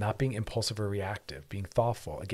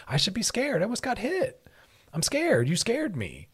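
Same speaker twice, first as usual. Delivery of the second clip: higher, lightly frightened tone; mock scared; 12 semitones higher than usual. Shown as a demonstration. A near-miss walker telling the driver, mild mock fear. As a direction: show honest fear after a near miss. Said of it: "not the most honest, appropriate one".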